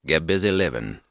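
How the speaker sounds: low and unhurried, quietly wise; Morgan Freeman. Retold or imitated. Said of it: "That's a great Morgan Freeman".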